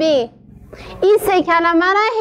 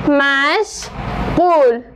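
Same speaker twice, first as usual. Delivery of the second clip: مشغول said very slowly, split into two drawn-out syllables; 2 semitones lower, much slower than usual. Shown as a demonstration. Teacher repeating مشغول syllable by syllable, very slow. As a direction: drag out each syllable of مشغول. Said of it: "کلمهٔ مشغول".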